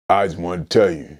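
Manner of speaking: imitated very low, subdued man; real deep voice. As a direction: drop right down to a deep, quiet rumble. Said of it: "he got this real deep voice".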